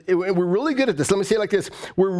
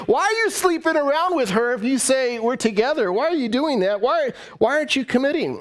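higher-pitched hurt demand for answers; mock confrontation; 6 semitones higher than usual. Preacher acts out partner questioning a cheat, mock confrontation. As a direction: confront them in rising disbelief, acted out.

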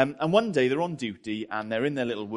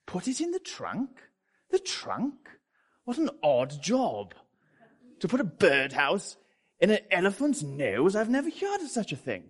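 much higher, hammed-up puzzled British voice; Jeffrey's British voice; 7 semitones higher, 4 dB louder than usual. Jeffrey the British zookeeper, puzzled by his boss's order: hammed-up high British voice. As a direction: squeak out a baffled British zookeeper. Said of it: "a British counterpart called Jeffrey".

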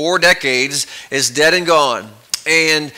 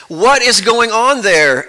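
alarmed boss; 6 semitones higher, 3 dB louder, slower than usual. Acted. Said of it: "now very alarmed".

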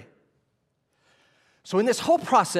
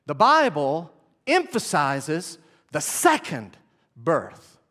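slow dictation, again; 3 semitones lower, slower than usual. Shown as a demonstration. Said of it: "Write this down".

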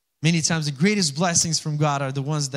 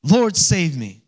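a louder retold cry for help; 6 dB louder, slower than usual. Preacher quoting Peter as he sinks, crying out. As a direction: call out as if imitating a sinking man. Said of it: "He cried out".

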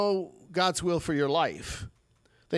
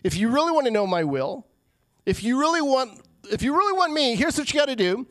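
Jesus urging; 5 semitones higher than usual. Retold or imitated. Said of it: "he says".

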